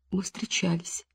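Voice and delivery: совсем тихо, почти шёпотом; признаться еле слышным голосом; еле слышно. A narrator's reading. Тихое признание Насти. (Настя признаётся следователю, еле слышно)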